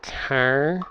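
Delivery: "car" with a Minnesotan vowel, rising. Shown as a demonstration. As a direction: say "car" the Minnesota way, drawn out with a lift. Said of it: "say car as".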